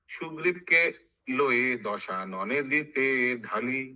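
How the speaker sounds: measured chanted verse with drawn-out line endings; sing-song Bengali verse recital; verse recitation. Acted. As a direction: intone it like epic scripture.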